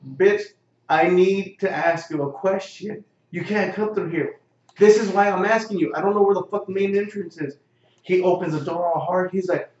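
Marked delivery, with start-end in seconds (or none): 0.1-7.6 loud, exasperated comeback; retold angry retort. Talking back to the guard at the door, loud and irritated. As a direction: snap back at the guard, fed up.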